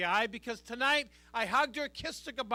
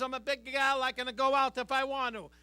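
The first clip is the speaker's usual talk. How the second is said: mild mock Italian accent of a mother; mother's Italian accent; 4 dB louder than usual. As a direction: put on Mama's Italian accent lightly. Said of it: "She has an accent".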